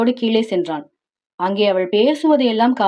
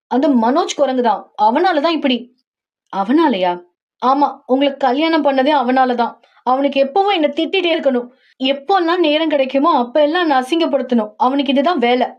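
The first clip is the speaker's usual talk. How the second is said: heroine's voice; 3 semitones higher than usual. Acted. Heroine complains about Manoj.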